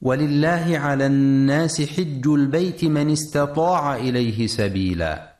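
measured tajweed chant of the verse; Quran recitation. Acted. Radio tajweed teacher reciting the verse for listeners, measured chant.

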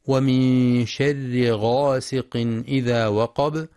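slow measured tajwid chant; Quran recitation. Shown as a demonstration. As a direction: recite the verse slowly.

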